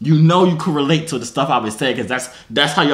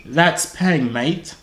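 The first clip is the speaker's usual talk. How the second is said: slow demonstration in mock British accent; put-on British; much slower than usual. Shown as a demonstration. Teaching a stranger British slang, put-on British accent. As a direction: model British slang slowly, dropping on "mate". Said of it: "I'll teach you".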